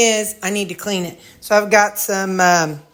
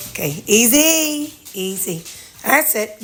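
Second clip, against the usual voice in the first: soothing the dogs; 2 semitones higher than usual. Real, not acted. Calming dogs coming in.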